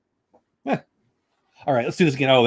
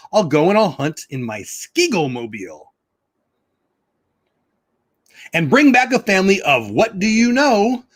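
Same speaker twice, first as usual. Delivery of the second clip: sing-song Seuss reading, drawn out in places; storybook reading; 2 semitones higher than usual. Acted. Reading Dr. Seuss aloud to viewers, bouncy storybook voice. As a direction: read it like a picture book for kids.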